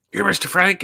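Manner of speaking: high, excited squeal of recognition; lightly voiced amazed fan; surprised fan. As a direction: mimic her starstruck disbelief. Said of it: "And she's like".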